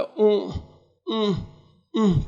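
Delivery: mild imitated groans; groaning in pain. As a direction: moan after the beating. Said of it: "ઊંકારા ભરતા ભરતા".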